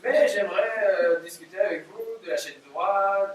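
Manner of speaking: hammed-up Belgian accent with "une fois"; mock Belgian accent, caught between laughs. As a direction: fake a Belgian producer's accent. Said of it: "je prends l'accent belge".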